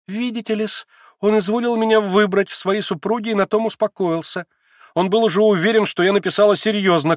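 put-on eager young woman pressing her point; young Lise. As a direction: play the agitated young girl Lise. Lise mock-offended.

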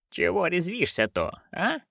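hissed under breath; whispered fury. A narrator's reading. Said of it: "прошипела она".

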